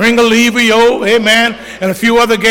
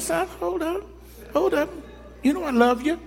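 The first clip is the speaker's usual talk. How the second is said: higher, soft coaxing; tender; 8 semitones higher, 11 dB quieter than usual. Retold or imitated. Father softly calming his son before church. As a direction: ease him down gently.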